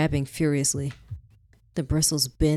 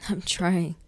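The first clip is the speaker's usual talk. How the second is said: tearful pleading; 5 semitones higher than usual. A narrator's reading. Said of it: "your cries".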